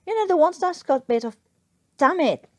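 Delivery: frustrated fumbling. Acted. Newkirk fumbling for a word.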